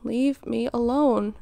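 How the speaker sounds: lightly imitated eye-roll, drawn out slowly; mildly mock a fed-up kid, dragging the words; exasperated teenager. Parent quoting their older child brushing them off, mildly exasperated. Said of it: "They just roll their eyes and say".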